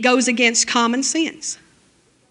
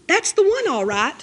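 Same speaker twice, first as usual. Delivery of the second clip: beaming; 5 semitones higher than usual. A narrator's reading. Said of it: "he said, beaming".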